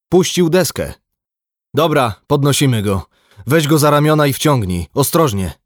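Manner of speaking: high, loud commands during a rescue; urgent orders. A narrator's reading. Skipper directs crew hauling in a man, urgently. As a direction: call out orders over the side.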